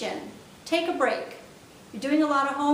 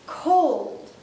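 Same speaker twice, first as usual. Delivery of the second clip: Cold said louder, drawn out; emphatic cold; 2 semitones higher, 5 dB louder than usual. Shown as a demonstration. Teacher showing really Cold. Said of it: "You slow it down".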